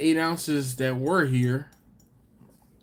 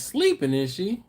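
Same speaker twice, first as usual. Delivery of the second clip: mock high quote; 6 semitones higher than usual. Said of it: "Laura says".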